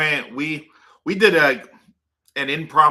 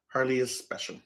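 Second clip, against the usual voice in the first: breathy whispered aside; 7 dB quieter than usual. Real, not acted. Whispering to viewers about her dog Harley. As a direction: lean in and whisper it like a secret.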